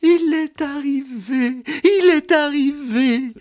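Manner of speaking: very high heralding cry; excited announcing. Acted. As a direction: proclaim the arrival far above your pitch. Annonce criée dans l'escalier. (annonce exaltée, suraiguë)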